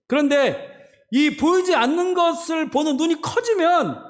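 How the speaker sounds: high, insistent pulpit voice; emphatic preaching. Acted. Preacher contrasting seen and unseen for the congregation, emphatic preaching. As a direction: drive each phrase home, pitched well up.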